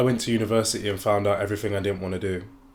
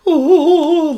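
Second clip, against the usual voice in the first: high, bright gasp of joy; delighted gasp; 13 dB louder than usual. Retold or imitated. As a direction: gush like a thrilled trainspotter. Imitating train guy's delight.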